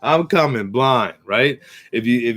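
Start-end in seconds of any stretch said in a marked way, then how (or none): 0.0-0.7 high, cheery cartoon sheep chatter; silly sheep voices. Sheep calling to each other, high and cheerful. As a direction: squeak it out like a dim happy sheep.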